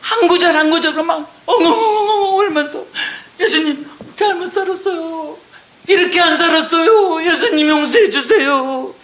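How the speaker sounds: pleading through tears; tearful laughing plea. Real, not acted. Preacher recalls begging Jesus for forgiveness, tearful. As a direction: voice caught between laugh and sob. Describes sobbing prayer.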